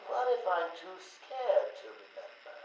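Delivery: high, hammed-up fear; mock frightened. Patient feigning trauma to his doctor, high mock fear.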